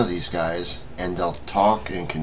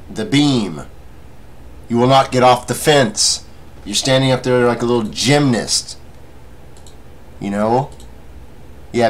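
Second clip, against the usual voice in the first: raised, emphatic, higher-pitched scolding; scolding rant; 4 semitones higher, 5 dB louder than usual. Real, not acted. Telling fence-sitters to get off the balance beam, loud scolding. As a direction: lay into them, punching key words loudly.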